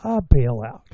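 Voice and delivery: a country-club banker panicking in parody; mocking bankers. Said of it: "sitting there going".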